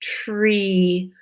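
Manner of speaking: put-on teacher stretching a word for kids; slow stretched word. Shown as a demonstration. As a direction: stretch tree so every sound is heard. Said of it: "say it slowly and stretch it".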